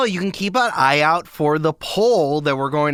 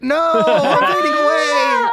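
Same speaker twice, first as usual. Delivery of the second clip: high, slow, hammed-up cry of fading; mock panicked wail; 4 dB louder than usual. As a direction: wail like you're vanishing from existence. Acts out being erased from history.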